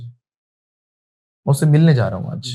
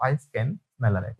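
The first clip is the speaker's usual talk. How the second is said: slow drill model; 5 semitones lower, 9 dB quieter, much slower than usual. Shown as a demonstration. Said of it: "कैसे बोलेंगे?".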